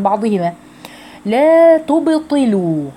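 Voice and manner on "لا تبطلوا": لا تبطلوا slowly, higher, each vowel drawn out; tajweed demo. Shown as a demonstration. Teacher models the word for students, slow careful recitation. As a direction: chant لا تبطلوا slow with a clear fall. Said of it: "انتبهوا يا حبيباتي في نطق هذه الكلمة".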